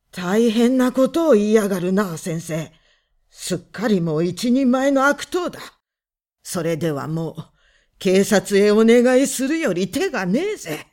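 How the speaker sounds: hateful. A narrator's reading. Visitor man threatening the husband, hateful. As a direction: menace him with hatred. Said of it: "すごい憎悪がこもっていました".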